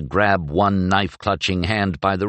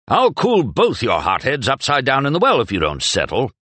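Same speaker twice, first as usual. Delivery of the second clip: parade-ground voice; 6 semitones higher than usual. Acted. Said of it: "his voice deep and loud, parade ground pitched".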